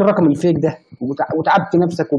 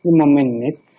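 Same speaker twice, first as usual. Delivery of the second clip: trying a voice. Pretend. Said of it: "حبيت أر-، أجرب صوتي".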